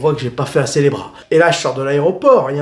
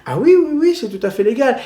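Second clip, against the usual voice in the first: sarcastic; 9 semitones higher than usual. Real, not acted. Sarcasm about illegal taxi fees.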